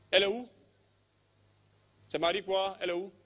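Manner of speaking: high, loud searching call; urgent calling. Real, not acted. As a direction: demand where she is.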